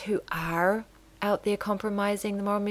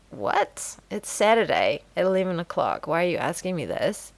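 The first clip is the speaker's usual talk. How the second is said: composed comeback. Retold or imitated. Woman calmly questioning her neighbor after a breath, composed. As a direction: take a breath first, then ask it evenly. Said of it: "taking a breath and then being like".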